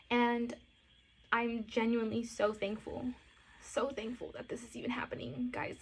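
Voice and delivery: choked-up, breaking into a whisper; real tears while thanking viewers; tearful thanks. Real, not acted. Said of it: "but I'm over here crying".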